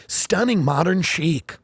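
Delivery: slow, gushing listing read; hammed-up real estate blurb; mock real estate blog. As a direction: sell the house lovingly. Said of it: "and go".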